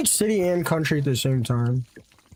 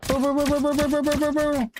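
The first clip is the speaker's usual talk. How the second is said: mock booing; 11 semitones higher than usual. Booing another player in game.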